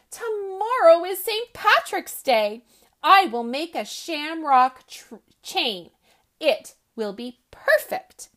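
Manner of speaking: excited Rabbit. Acted. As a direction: Rabbit can't wait for tomorrow. Rabbit excited about the chain.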